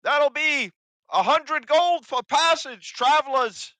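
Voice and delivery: greedy goblin toll demand, high and loud; high, loud, slow hobgoblin. Acted. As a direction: drag out the price like a sly hobgoblin. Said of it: "you see him just kinda look around".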